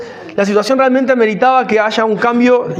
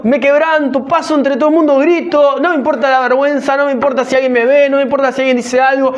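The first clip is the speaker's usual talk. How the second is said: desperate believer; 3 semitones higher than usual. Pretend. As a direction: voice a desperate person pleading, mildly. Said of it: "para que vos pienses una situación y digas".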